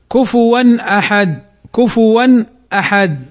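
كفوا أحد as "kufuwan ahad", the n fully sounded; clear izhar. Shown as a demonstration. Teacher showing students izhar, clear n then hamza in كفوا أحد. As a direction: pronounce the tanween n in كفوا أحد distinctly, without merging. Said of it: "فنطقها هكذا مظهرا للحرف".

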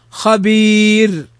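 thin ر ending خبير after a long ee; light ra. Shown as a demonstration. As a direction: stretch the ee of خبير slowly into a light final ر. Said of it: "فإنها ترقق".

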